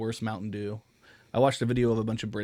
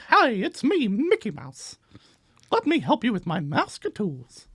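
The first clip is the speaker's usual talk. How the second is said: much higher cartoon mouse voicemail greeting; chirpy cartoon mouse on a voicemail; Mickey Mouse voice; 11 semitones higher, 6 dB louder than usual. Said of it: "That's his voicemail".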